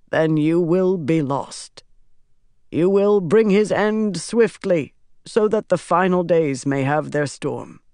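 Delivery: measured, solemn declaiming; reciting prophecy. A narrator's reading. Pytar finishes quoting the prophecy, solemn recitation. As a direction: intone it, easing down towards the end. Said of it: "Pytar quoted".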